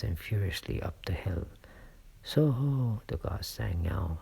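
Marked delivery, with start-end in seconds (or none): 2.2-3.0 a loud, high hail to the rider; roaring call. A narrator's reading. The guard roars a hail at the approaching rider. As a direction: roar it out into the dark. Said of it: "as loud as he could roar".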